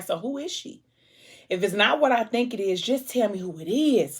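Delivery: high, insistent question. Retold or imitated. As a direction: press her for who it is.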